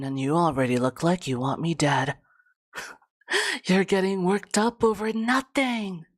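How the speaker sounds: smug bratty villain; taunting tsundere villain. Acted. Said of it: "bratty villain kind of voice".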